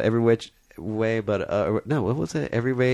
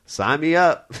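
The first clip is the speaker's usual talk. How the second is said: Clint Eastwood; 6 semitones higher, much slower than usual. Retold or imitated. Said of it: "and he's like".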